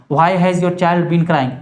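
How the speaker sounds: put-on Why has your child been crying said very slowly; slow dictation. Shown as a demonstration. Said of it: "आपका बच्चा एक घंटे से क्यों चिल्ला रहा है?". (धीमी गति से बोलना)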